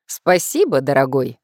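loud cheerful thanks; cheerful exclamation. Acted. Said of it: "жизнерадостно воскликнул продавец".

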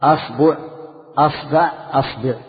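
أصبع with a on the first vowel and the vowel after the b changing; teacher drilling the a forms of أصبع. Shown as a demonstration. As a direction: say أصبع as asbu, asba, asbi. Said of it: "فتح الهمزة وتثليث الباء".

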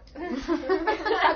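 a bright burst of laughter, rising high; real laugh. Real, not acted. Laughing at her own joke. (risa espontánea y aguda)

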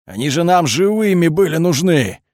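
high-pitched angry protest, moderately loud; yelling. A narrator's reading. Colonel needed the captives alive, high exasperated yell. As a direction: yell at a subordinate who botched it. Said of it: "заорал на меня Жан Гаврилович".

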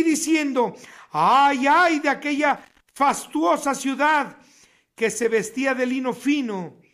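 solemn preacher's reading, steady and grave; weighty sermon reading; preaching scripture. Acted. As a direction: proclaim the doom over the city. Reads Revelation passage aloud.

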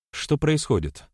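alarmed. A narrator's reading. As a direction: ask with rising alarm. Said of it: "встревоженно спросила Злата". (встревоженно)

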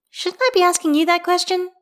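high, amused teasing; smiling voice. Acted. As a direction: tease him with a smile. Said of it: "there's a smile in her voice when she says".

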